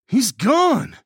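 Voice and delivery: high, loud yell; yelling back. A narrator's reading. Hernandez answering Nagel in the stairwell, yelling back. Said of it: "Hernandez yelled back".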